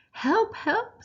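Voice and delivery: high, loud panicked scream; high-pitched loud cry for help. Acted. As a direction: shriek it out like a terrified mum. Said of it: "screamed Mum".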